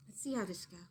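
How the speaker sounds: hushed aside; whisper. A narrator's reading. Reader to the children, hushed whisper. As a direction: lean in and whisper it.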